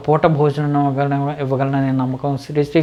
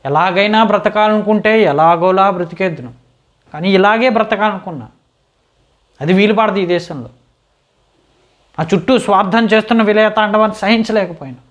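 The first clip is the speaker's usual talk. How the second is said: raised, insistent self-justification; impassioned protest; 4 semitones higher than usual. Acted. Man explaining why he cannot compromise in this country, impassioned. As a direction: plead your principles with rising fervour. Defends his principles against society.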